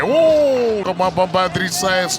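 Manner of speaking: slow, loud amazed exclamation; wrestling commentator. Real, not acted. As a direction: drag it out in loud awe. Big save, commentator exclaims.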